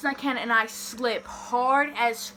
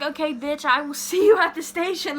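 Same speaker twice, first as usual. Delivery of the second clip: higher, dismissive mom voice with a laugh; imitated mom; 4 semitones higher, 3 dB louder than usual. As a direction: play mom brushing off a panicking kid. Imitates mom's dismissive reply.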